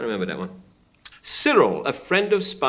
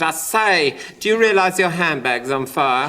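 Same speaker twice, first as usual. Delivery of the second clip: camp voice; 2 semitones higher than usual. Retold or imitated. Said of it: "a camp voice".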